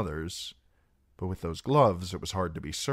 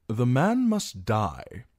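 loud, slow, raised-pitch verdict; forceful declaration; 6 semitones higher, 6 dB louder, slower than usual. A narrator's reading. Knight declares the singer's fate, loud and emphatic. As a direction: declare it hard, drawing out the words. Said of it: "Sir Marwyn Belmore declared".

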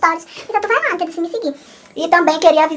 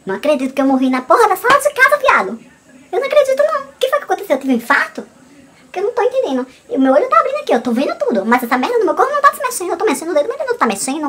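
high, frantic panicked rant; 4 semitones higher than usual. Retold or imitated. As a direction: panic like you can't move. Retold panic during sleep paralysis.

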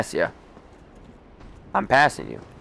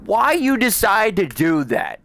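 exasperated complaint; 5 semitones higher than usual. Real, not acted. Complaining at the boss.

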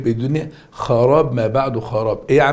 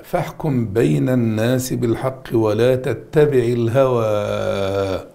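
Quran recitation; slower than usual. Shown as a demonstration. Teacher recites a verse.

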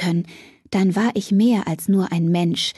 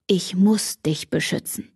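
urgent. A narrator's reading. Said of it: "Er klang so dringlich".

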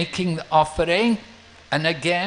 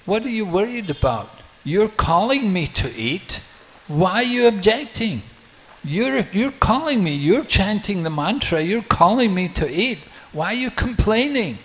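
a hint of a high, quick child's voice; a child teasing the priest, lightly higher; lightly voiced child; 6 semitones higher than usual. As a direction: playfully chide him like a cheeky child. Child Nimai scolds the Brahmana.

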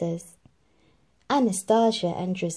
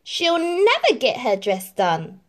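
louder mouse voice, worried; Jack worrying; 5 semitones higher, 5 dB louder than usual. A narrator's reading. Mouse Jack worries about Cinderella's dress. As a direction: fret about it. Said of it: "said Jack".

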